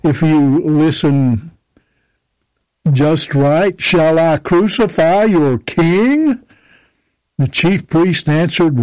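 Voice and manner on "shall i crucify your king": slow, mocking question to the crowd; sarcastic. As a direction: sneer it at them, slowly. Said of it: "you can hear the sarcasm in his voice".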